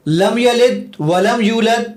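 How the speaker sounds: slow, drawn-out verse, misread on purpose; deliberately wrong recitation. Shown as a demonstration. Host testing the app with a bad reading, deliberately wrong recitation. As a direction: misread the Arabic verse slowly to test a checker. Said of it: "میں اب اس کو غلط پڑھوں گا".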